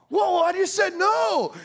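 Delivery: drawn-out mock indignation; taken-aback protest. Man answers "why are you blowing me off", slow high defensive protest.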